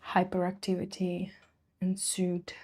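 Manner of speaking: dry whispered punchline. Acted. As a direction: breathe it like a secret. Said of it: "whispered joke punchline".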